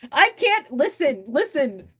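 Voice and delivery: high, loud laughing protest. Real, not acted. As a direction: laugh through the words. Laughing at being corrected.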